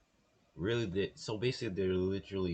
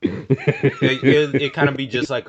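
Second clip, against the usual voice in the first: laughing; 7 semitones higher, 12 dB louder, slower than usual. Real, not acted. Still laughing after the joke.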